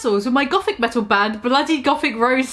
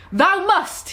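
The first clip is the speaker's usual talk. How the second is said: higher mock yell, slightly pushed; a hint of a dark lord yelling; hammy villain yell; 6 semitones higher than usual. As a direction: bark it like a cartoon villain. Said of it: "he yelled".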